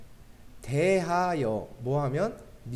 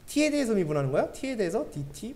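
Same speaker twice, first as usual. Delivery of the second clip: imitating a jeering student with higher-pitched questions; mock incredulity; 5 semitones higher than usual. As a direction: tease with mock-puzzled, high questions. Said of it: "뭐 이러면서 막 조롱할 수도 있어요".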